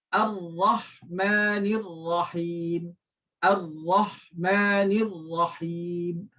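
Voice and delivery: Ar-Rahmanir Rahim slow, ra thick and heavy; tajwid recitation. Shown as a demonstration. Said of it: "huruf yang kelima iaitu ra". (bacaan perlahan Ar-Rahmanir Rahim dengan ra tebal)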